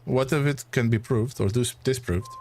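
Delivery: light French accent, lightly voiced; a hint of a French gentleman; understated French-accented reply. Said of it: "it's gonna be a struggle for me to keep this accent".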